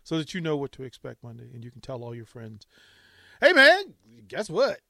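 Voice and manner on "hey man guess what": high, loud eager announcement; excited friend. Pretend. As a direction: blurt the big news.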